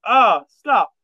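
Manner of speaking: mock overwhelmed squeal; high emotional protest. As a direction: cry out as if moved. Moved viewer reacting.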